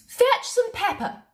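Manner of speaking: high, slow royal order; regal command. A narrator's reading. Queen ordering pepper for Sam, commanding. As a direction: summon the footman grandly.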